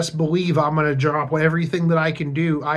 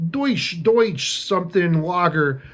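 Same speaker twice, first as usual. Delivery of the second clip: mock German accent; 2 semitones higher than usual. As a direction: ham up a bad German accent. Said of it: "I can't do a German, um, accent".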